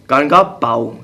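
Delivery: retold with mild seriousness; measured, sincere announcement; serious tone. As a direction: say it earnestly, no joking. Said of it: "I said it in serious".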